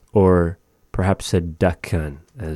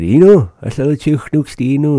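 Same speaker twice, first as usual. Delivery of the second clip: higher, quick quoted reply; retold reply; 8 semitones higher, 7 dB louder, faster than usual. Teacher retelling store chat, quick higher quote. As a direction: rattle off his own answer, pitched up. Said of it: "And I said".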